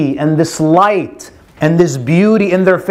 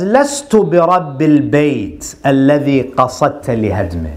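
lower, steady and unhurried; calm reply; 5 semitones lower, faster than usual. Acted. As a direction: answer the king without a trace of worry. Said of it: "he replies very calmly".

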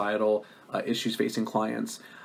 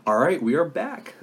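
higher, louder talk-show host voice; cartoon voice; 6 semitones higher, 4 dB louder than usual. Real, not acted. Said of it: "You're using your cartoon voice".

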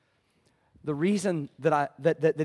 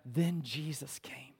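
whisper; 2 semitones lower, 9 dB quieter, slower than usual. Real, not acted. Dramatic turn in sermon.

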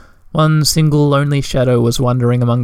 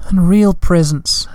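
slow, higher, longing voice; slow, higher tiny relation; wistful little creature; 5 semitones higher, slower than usual. Acted. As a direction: savour each word. Another small relation wistful.

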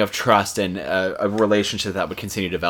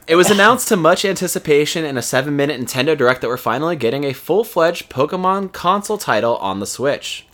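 scripted game-news delivery; news read; 5 semitones higher than usual. Real, not acted. Host reading Pokemon news to listeners, scripted news read. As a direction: read it out like a show segment.

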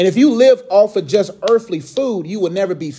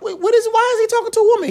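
high-pitched, scandalized disbelief; squeaky stunned whisper-to-a-friend question; mock shock. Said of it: "they shocked that they mans".

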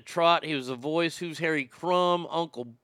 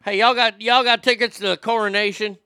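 hick voice; 5 semitones higher, 6 dB louder than usual. Acted. Mock radio caller voice.

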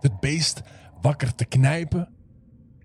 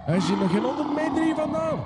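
squeaky, jittery high-pitched fib; anxious lie in a strained high voice; nervous high voice; 9 semitones higher, 5 dB quieter than usual. Acted. Nervous hunter lies to tiger.

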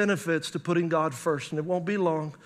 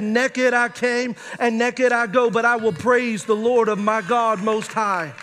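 impassioned preaching prayer; 2 semitones higher than usual. Acted. Preacher voicing a grateful prayer to God, building to full force. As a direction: pour out thanks in a rolling preacher's crescendo.

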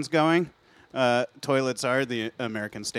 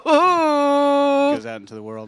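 dramatic trailer voice; 9 dB louder, much slower than usual. Pretend. Mock dramatic movie plot summary.

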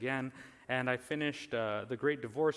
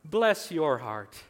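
put-on Southern accent; 6 dB louder, much slower than usual. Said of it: "In your southern accent".

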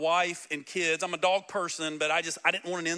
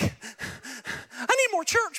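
much higher, drawn-out pleading; desperate eagerness; 8 semitones higher, much slower than usual. Retold or imitated. Pastor mocking converts pressed against the doors, slow high plea. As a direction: beg slowly for more church.

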